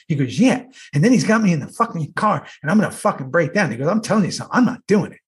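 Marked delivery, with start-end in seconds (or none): 0.4-3.7 lightly imitated indignant rant; mock-outraged colleague, punching every curse; Dayton. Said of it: "You know the way he talks". 3.9-5.2 imitated digging-in refusal; higher, mock-insistent colleague; Dayton. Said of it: "You know the way he talks".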